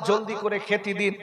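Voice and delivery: soft, low mock sobbing plea; a touch of crying children begging for food. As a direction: quietly beg like weeping children. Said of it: "কেঁদে কেঁদে বলছে".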